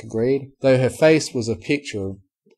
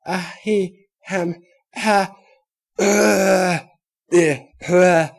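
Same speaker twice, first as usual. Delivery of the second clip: nervous hesitation; 10 semitones higher, 7 dB louder, much slower than usual. Acted. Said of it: "Apple Bloom's poor imitation".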